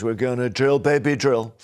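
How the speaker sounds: a light American accent, imitating Trump; Trump's American accent. Host quoting Trump to a caller, light American accent. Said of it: "I can't do the accent like you can".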